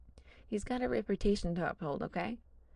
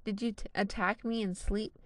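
growling; 3 semitones higher, 4 dB louder than usual. Acted. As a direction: growl the words out. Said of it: "Louis growls".

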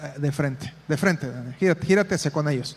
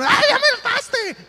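sharp, much higher exasperated cry, mimicking; fed-up parent yelling. Parent snapping at a child who wore them out, mock exasperated yell. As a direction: play a parent who has had enough. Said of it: "como esas veces que les gritan".

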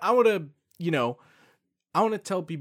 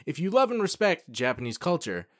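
reading a definition. Shown as a demonstration. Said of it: "David has his scroll out".

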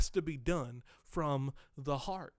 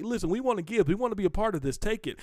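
higher, louder, pressing eagerness; eager givers; 4 semitones higher, 5 dB louder, faster than usual. Acted. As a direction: voice the church begging to give. Macedonians eagerly offering gifts.

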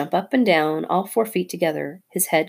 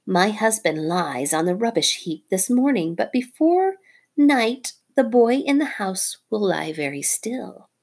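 lightly higher snake voice, rising on before; vengeful snake; 5 semitones higher than usual. Acted. Nagina vowing revenge on the boy, mild snake voice. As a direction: promise revenge coldly.

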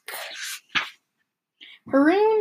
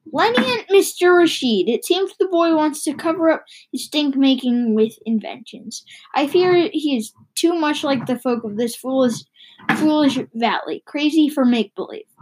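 Batu character voice; 3 semitones higher than usual. Acted. Batu voiced in read story.

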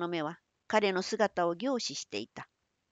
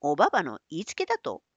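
lower, faster, disbelieving echo; incredulous question; 4 semitones lower, faster than usual. Acted. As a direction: repeat it back in disbelief. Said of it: "何？".

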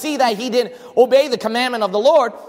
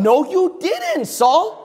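high, slow, scolding retort; rebuke; 10 semitones higher, 3 dB louder, slower than usual. Acted. Pastor rebuking Saul before the congregation, indignant. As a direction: call Saul out loudly.

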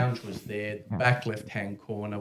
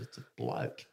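whispered; 11 semitones lower, 8 dB quieter than usual. Retold or imitated. Brother reveals secret.

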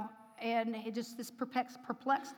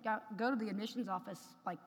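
voice of the Lord; 3 semitones lower, 8 dB quieter, faster than usual. Retold or imitated. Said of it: "the voice of the Lord that said".

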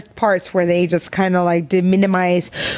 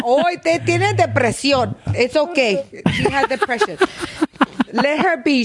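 mock sympathy; 6 semitones higher than usual. Host mocking excuses for a mother's crime, mock sympathy. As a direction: coo it with sarcastic pity.

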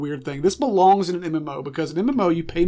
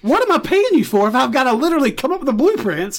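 angry boss; 7 semitones higher, 4 dB louder than usual. Acted. Customer rants at the blacksmith.

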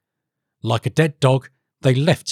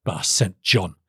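pondering king; 5 semitones lower, slower than usual. Acted. King responds to the advice.

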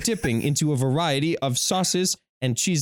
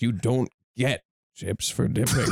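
put-on sleepy old man voice; 5 semitones lower than usual. Shown as a demonstration. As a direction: mumble it like a frail old man. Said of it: "sleepy, decrepit old man".

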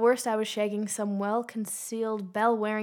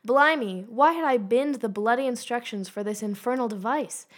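mock British accent, louder exclaim; 4 dB louder than usual. Shown as a demonstration. Host redoing the review line in a mock British accent. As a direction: ham up a British gent. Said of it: "I should have done this all in an accent".

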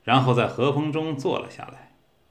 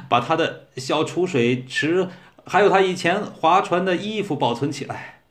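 higher, altered voice of a weeper; tearful lament; 4 semitones higher than usual. A narrator's reading. B mourning his dead friend C, in a tearful raised voice. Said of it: "则放声大哭起来".

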